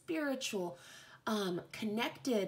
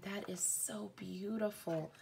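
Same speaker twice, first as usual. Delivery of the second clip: whispered in awe, no voice at all; awed whisper; 8 dB quieter than usual. Real, not acted. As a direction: breathe it out like a secret. Awed reaction to card.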